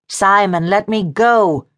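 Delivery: high, insistent woman's order; commanding. A narrator's reading. Diana demands release from his grip, commanding. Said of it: "Diana commanded".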